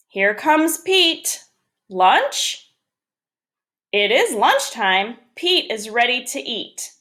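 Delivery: measured storybook reading with lilting phrases; picture-book read-aloud. Acted. Teacher reads Pete the Cat to first graders, storybook read-aloud. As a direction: read it out to young children, pausing between sentences.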